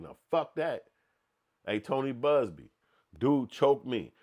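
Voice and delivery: mock defiant her. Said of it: "she like".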